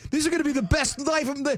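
high, eager mock glee; giddy young husband. Husband recalling the honeymoon, hammed-up giddy glee. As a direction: play your younger self thrilled about married life. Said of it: "I'm like".

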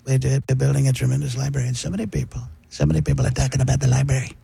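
underplay the boastful president; Donald Trump. Acted. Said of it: "I do the library Trump".

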